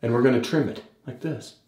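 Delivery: lightly mimicked tutorial voiceover; Jack Malacco impression. Vlogger imitates a beard YouTuber showing his technique, light impression. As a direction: demonstrate a step like a mock how-to narrator. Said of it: "This is my impression of Jack Malacco trimming his beard".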